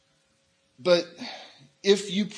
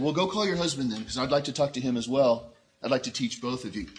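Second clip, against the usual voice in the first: gentle; 3 semitones lower than usual. Acted. Jesus innocuously asks the woman to fetch her husband, gently. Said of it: "very innocuously, very, very, very gently".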